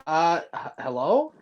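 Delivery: echoing tunnel. Real, not acted. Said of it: "Why do you sound like you're in a tunnel?".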